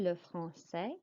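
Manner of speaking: français said with a soft S sound, frahn-say; teacher showing how français sounds; French pronunciation. Shown as a demonstration. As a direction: model le français with the ç as S. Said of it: "the C is pronounced like an S sound".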